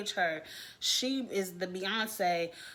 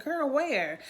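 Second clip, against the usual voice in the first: sassy retort; 5 semitones higher than usual. Retold or imitated. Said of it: "And I'm said".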